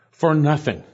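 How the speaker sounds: "nothing" set apart after a pause; deliberate, separate emphasis on "nothing"; emphatic. Shown as a demonstration. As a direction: land firmly on "nothing". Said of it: "it's emphatic".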